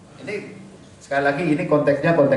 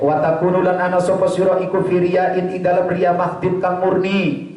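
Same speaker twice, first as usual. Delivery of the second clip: chanted reading with Javanese gloss; kitab recitation. Acted. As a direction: intone the text for the students.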